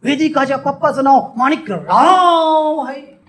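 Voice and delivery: high, slow voice with a long drawn-out name; playful high cartoonish voice; put-on character voice. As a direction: stretch the name out high and teasing. Character voice demo, name stretched.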